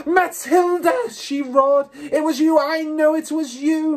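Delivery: high, drawn-out furious roar; accusing roar. A narrator's reading. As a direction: roar the accusation at full force.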